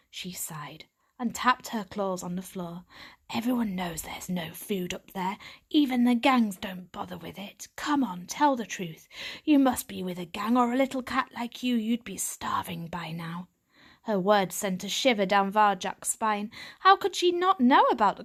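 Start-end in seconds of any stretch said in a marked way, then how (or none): 3.3-13.5 gravelly tomcat-like she-cat. Acted.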